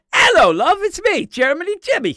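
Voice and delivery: high, loud fake German greeting; mock German accent. Shown as a demonstration. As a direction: put on a silly German accent. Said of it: "here's my German".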